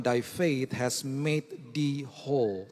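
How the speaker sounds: put-on slow, solemn old English verse; solemn King James reading. Shown as a demonstration. Preacher quoting the King James verse, slow and solemn. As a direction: intone it like the King James Bible. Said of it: "Terjemahan King James Version dikatakan".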